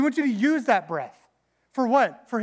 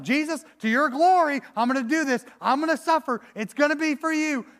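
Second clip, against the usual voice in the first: mock martyr; 5 semitones higher than usual. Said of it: "And it's like".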